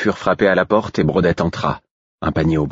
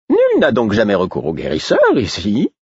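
slightly higher, musing to nobody; the Fool, aside; 5 semitones higher than usual. Acted. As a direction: toss it into the air as the Fool. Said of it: "sans s'adresser à personne".

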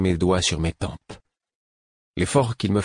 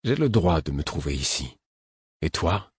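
calm tone; 2 semitones lower than usual. A narrator's reading. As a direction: answer him evenly, without heat. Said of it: "déclarai d'un ton calme".

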